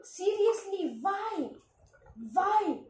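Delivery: high, loud pleading whys; high loud whining complaint; despairing why. Real, not acted. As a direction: beg the game for a reason. Despair after game loss.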